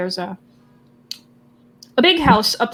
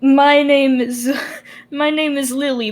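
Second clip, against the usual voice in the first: lightly voiced grandma, pitched higher; friendly grandma; 4 semitones higher, 4 dB louder than usual. Grandma offers her hand to everyone, a touch of sweet granny voice. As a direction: introduce yourself in a mild, raised grandma voice. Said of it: "she offers her hand to everyone".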